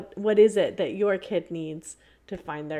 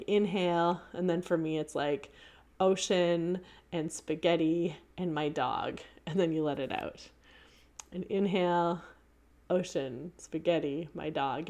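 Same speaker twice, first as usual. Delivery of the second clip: calm guided breath; 3 dB quieter than usual. Shown as a demonstration. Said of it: "the idea is to take an inhale".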